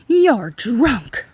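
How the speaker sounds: loud accusing yell. A narrator's reading. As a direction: throw it at him in disgust. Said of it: "she yelled".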